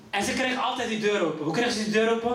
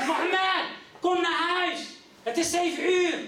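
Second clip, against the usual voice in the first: mother calling in; 6 semitones higher than usual. Retold or imitated. Mother calling son inside.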